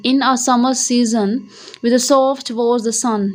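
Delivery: each word drawn out slowly, line read as an example; slow reading aloud. Shown as a demonstration. Teacher rereads the old English line slowly for students. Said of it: "उसमें summer को ऐसे लिखते थे".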